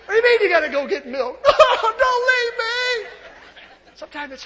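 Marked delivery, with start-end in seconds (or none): 0.0-1.4 fast, laughing mock complaint; preacher mimicking himself begging his wife to stay; mock whine. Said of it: "Actually, it's the other way around". 1.5-3.1 slow, high, loud mock pleading; husband wailing at his wife not to leave; hammed-up wail. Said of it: "Actually, it's the other way around".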